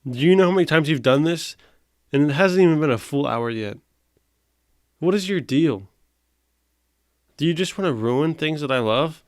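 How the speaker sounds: fed-up owner chewing out the dog; exasperated scolding. Real, not acted. Scolding dog interrupting video.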